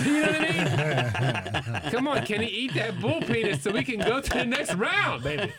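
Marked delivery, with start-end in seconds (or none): 1.9-5.5 mock cheering. Cheering Kenny on at Fear Factor.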